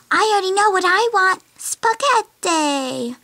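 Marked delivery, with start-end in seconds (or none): 1.6-3.2 slow, drawn-out mock Italian accent. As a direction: stretch spaghetti like a hammed-up Italian. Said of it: "Nice Italian accent".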